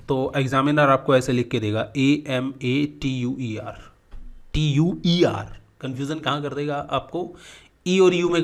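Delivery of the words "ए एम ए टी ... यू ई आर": slow spelling out. Shown as a demonstration. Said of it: "spelling out letters".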